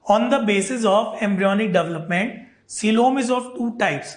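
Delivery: very slow, deliberate dictation; speaking slowly. Shown as a demonstration. Teacher promises students to speak slowly, very slow delivery. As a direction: spell it out slowly for the class. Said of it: "धीरे धीरे बोलूंगा".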